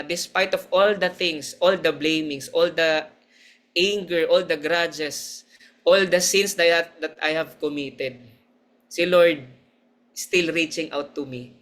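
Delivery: slow, deliberate list of sins; testifying how God still reached out; slow heartfelt testimony. Real, not acted. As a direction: linger on each word.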